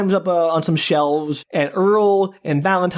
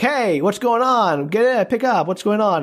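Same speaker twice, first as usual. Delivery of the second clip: higher, insistent calling voice; mock radio call; 4 semitones higher than usual. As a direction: imitate hailing someone over CB radio. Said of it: "calls on the C B radio".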